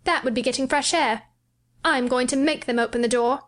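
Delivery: wanting the garden badly; a touch of excited boy; mild excitement. A narrator's reading. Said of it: "He had become quite excited".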